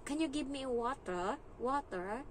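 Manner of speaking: put-on British accent. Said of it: "nag-aral kasi ako sa British na school. Kaya yung accent ko".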